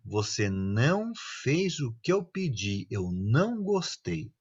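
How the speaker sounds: slow, soft, even reprimand; calm scolding. Acted. Parent calmly telling off a child, slow and soft. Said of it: "aquela bronca que você fala bem calminho".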